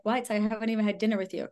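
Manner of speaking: fast, disbelieving retort; incredulous. Retold or imitated. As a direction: blurt it out in disbelief. Incredulous reply to Maldives offer.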